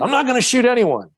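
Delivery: put-on Southern cop accent repeating the line back. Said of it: "That's why I'm doing that Southern accent".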